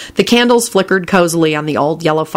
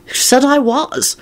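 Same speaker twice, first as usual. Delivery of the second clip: high, slow, scowling retort; 9 semitones higher, slower than usual. A narrator's reading. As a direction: snap it back with a scowl. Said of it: "with a horrible scowl".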